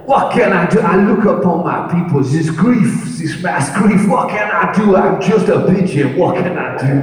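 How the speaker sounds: hammed-up pigeon mourning the nation. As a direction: lament like a tragic little pigeon. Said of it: "a French pigeon perched on a gargoyle outside Notre Dame going".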